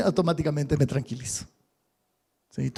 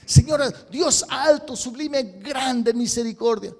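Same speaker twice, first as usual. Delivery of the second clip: flowery rote prayer; 6 semitones higher, 4 dB louder, slower than usual. Retold or imitated. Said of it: "el mismo verso de siempre".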